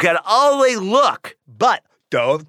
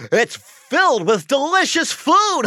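high, giggling through the words; jolly laugh; 8 semitones higher than usual. Acted. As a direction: chuckle over a big full belly. Curator laughs about his belly.

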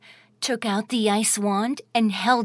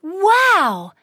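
amazed wow; 7 semitones higher, 6 dB louder than usual. A narrator's reading. Narrator exclaims in wonder.

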